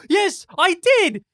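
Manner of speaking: confidently wrong answer in character; Drexel's voice. Acted. Drexel answering the warrior, high and loud. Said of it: "Drexel's like".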